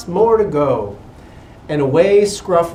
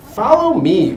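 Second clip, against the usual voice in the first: mild cry; 5 semitones higher, 5 dB louder than usual. A narrator's reading. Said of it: "cried Scruff".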